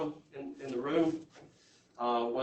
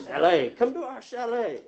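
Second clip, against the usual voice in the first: a higher, louder, sales-pitch invitation where "chalet" is said the plain English way, shay-LAY; inviting chalet; 8 semitones higher, 5 dB louder than usual. Shown as a demonstration. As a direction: savour the word "chalet" like an advert for the Swiss Alps. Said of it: "Chalet, I love that word".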